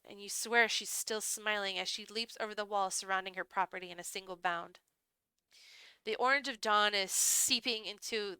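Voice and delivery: measured, hushed-drama storytelling; story narration. A narrator's reading. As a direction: read it like a dark visual novel. Reads the game's story aloud.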